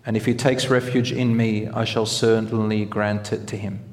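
solemn, measured reading of sacred words; hadith recitation. Acted. Reads a long hadith.

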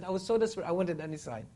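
imitated desperate plea.

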